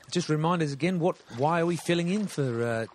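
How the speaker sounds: hammed-up Aussie podcast host; put-on Australian accent. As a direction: play a laid-back Australian bloke introducing the show.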